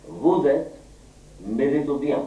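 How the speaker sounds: French-sounding gibberish in short, separate bursts; mock French. Shown as a demonstration. Teacher baffling the class with French, mock French delivery. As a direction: put on a rough French accent. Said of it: "French में बोलता हूँ".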